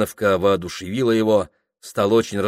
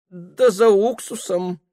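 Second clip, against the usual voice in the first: higher, slow, with a sly hint; hint at more than the vinegar; insinuating; 9 semitones higher, slower than usual. A narrator's reading. Cook answering the mistress, slyly insinuating. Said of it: "двусмысленно проговорила кухарка".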